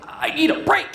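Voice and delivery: high, strained mock plea; exhausted listener. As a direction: plead high, as if worn out by the stress. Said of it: "you're like".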